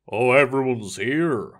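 a rough, musical Irish lilt; a rough older man's voice with an Irish lilt; rough Irish accent. A narrator's reading. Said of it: "a rough voice with a musical Irish accent declared".

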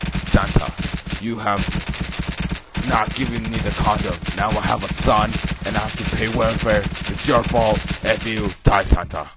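hammed-up horror villain taunt; villain game voice. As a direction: rant at Santa with mock menace. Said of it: "still talking like this".

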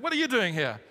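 mock-rude question to a neighbor. Shown as a demonstration. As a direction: rudely challenge a stranger. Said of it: "just very rudely just say".

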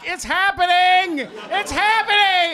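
high-pitched mock squeal of joy; giddy excitement. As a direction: squeal the big news to your mom. Retold excited call to mom.

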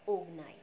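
ओगनाई sung out as o-ga-naai for अग्नि; altered pronunciation. Shown as a demonstration. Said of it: "शब्द के उच्चारण में परिवर्तन".

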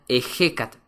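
"ejecat" with a Spanish j, e-HE-kat. Shown as a demonstration. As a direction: sound the H in "ejecat" as a rasped j. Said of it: "la H se pronuncia como ja".

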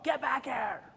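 high, strained yell after a runaway dog. Retold or imitated. Man chasing his escaped dog at night, yelling. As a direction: holler it down the street. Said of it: "yelling at this dog".

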